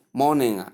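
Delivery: "morning" with the ng released as nga; correct ng ending. Shown as a demonstration. Teacher giving learners the right form, correct ng ending. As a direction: say morning as MOR-ning-uh. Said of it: "but simply".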